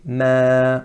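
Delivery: ma thin, sound descending; light ma. Shown as a demonstration. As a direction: correct light ma. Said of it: "where the sound descends".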